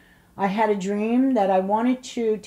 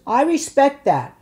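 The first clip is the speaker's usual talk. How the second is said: doctor's reply; 9 semitones higher, 7 dB louder than usual. Retold or imitated. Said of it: "He goes".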